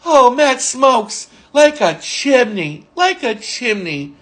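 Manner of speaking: slow, imitated disapproval; Benny's disgust. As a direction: draw out each phrase in mock disgust. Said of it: "he'd shake his head in disgust".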